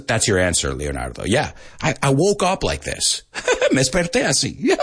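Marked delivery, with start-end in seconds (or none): 2.0-4.8 laughing through the words; real laughter. Real, not acted. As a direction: giggle at your own joke. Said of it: "laughing at himself".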